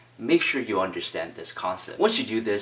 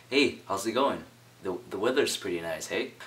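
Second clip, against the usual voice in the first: tentative, asking the listener for approval; hesitant opener, unsure of the reply; question asking tone. Shown as a demonstration. Demoing a tentative small-talk opener to a stranger. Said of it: "a question asking tone can sound something like this".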